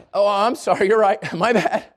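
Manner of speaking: mild, sheepish backing down; mock-timid apology; meek apology. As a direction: give in with a small nervous apology. Acting out backing down from bully.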